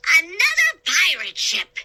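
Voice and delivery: high, loud alarmed cry; excited cry. A narrator's reading. Sailor spotting another pirate ship, loud cry. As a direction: call it out in alarm. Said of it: "Salty cried".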